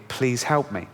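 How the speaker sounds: usual speaking voice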